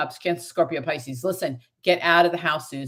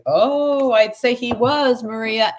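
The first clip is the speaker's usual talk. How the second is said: much higher and louder, slow on he was; thrilled answer; 6 semitones higher, 6 dB louder, slower than usual. Real, not acted. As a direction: burst out with delighted news.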